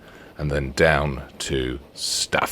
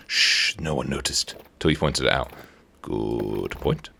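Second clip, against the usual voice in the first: arguing with himself; 3 semitones lower, 5 dB quieter, slower than usual. Pretend.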